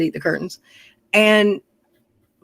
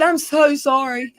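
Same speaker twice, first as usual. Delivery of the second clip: high, drawn-out mock-weepy plea; retold tearful apology; 7 semitones higher, slower than usual. Girl at the door apologizing to Daddy, imitated high, tearful voice. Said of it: "this girl standing on the porch crying".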